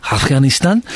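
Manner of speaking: mock newsreader putting on a foreign accent; over-authentic foreign accent on Afghanistan; newsreader's foreign accent. Host mocking newsreaders, put-on foreign accent. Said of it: "when they do the accent".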